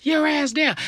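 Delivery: high, loud, drawn-out order; frustrated mom. Acted. Mom to panicking kid in car, frustrated shout. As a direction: yell it slowly in exasperation. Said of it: "She's frustrated".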